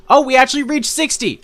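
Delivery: loud, high, thrilled announcement; excited. Real, not acted. Streamer just hit sixty subscribers, loud high thrilled cry. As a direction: burst out with the good news.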